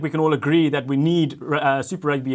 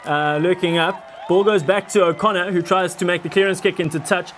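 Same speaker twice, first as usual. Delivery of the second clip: building excited commentary, louder toward the try; mock play-by-play; 2 semitones higher, 3 dB louder than usual. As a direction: call the fake match like a live commentator.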